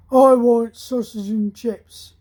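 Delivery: slow, loud cocky demand; mock cocky young lad, slow and loud. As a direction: bark the order like a cocky lad. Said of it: "he was quite a cocky lad".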